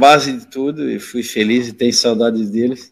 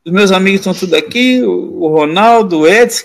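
higher-pitched, mildly whiny plea; tearful pleading, retold; 5 semitones higher than usual. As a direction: imitate a boy begging to stay. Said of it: "Aí comecei a chorar".

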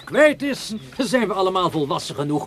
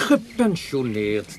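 mocking echo; 3 semitones lower, much slower than usual. Spottende herhaling van zijn woord.

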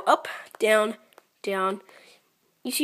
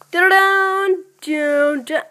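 loud, higher urging of each move; urgent calling; 7 semitones higher, 8 dB louder, much slower than usual. Real, not acted. Gamer calls out his moves urgently, loud. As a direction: push each word out urgently.

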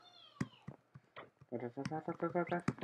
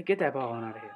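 louder, pumped-up call; excited cheer; 5 dB louder, faster than usual. Real, not acted. Playing cricket, hyping the swing with a loud cheer. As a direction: egg yourself on.

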